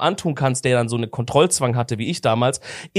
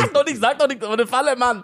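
laughing; 9 semitones higher than usual. Real, not acted. Laughing protest at friend's answer.

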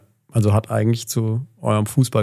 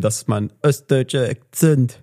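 East German accent. Shown as a demonstration. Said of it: "mein ostdeutscher Akzent ist einfach überall ein Ö".

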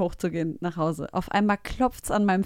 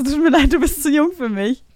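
mock blunt rejection; 6 semitones higher, 8 dB louder than usual. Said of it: "Ich so".

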